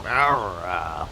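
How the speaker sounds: very low, soft growl; low demonstration growl; pirate growl. Shown as a demonstration. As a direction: drop the voice into a growl. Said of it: "lower your voice to, uh, like a, like a growl".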